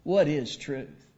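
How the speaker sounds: "What is truth?" a bit slow, at normal level, a firmer question; alternate Pilate reading. Shown as a demonstration. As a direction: ask "What is truth?" plainly and steadily. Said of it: "I don't know the inflection of Pilate's voice".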